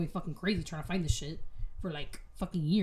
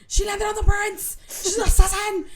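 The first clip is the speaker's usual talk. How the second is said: high, loud screaming alarm; mock screaming crowd; 13 semitones higher, 13 dB louder than usual. Crowd screaming at the girl who hit the prince. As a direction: shriek it like a panicked crowd.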